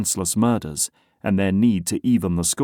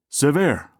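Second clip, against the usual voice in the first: booming greeting; 7 semitones higher, 5 dB louder than usual. A narrator's reading. Chief calls out greeting.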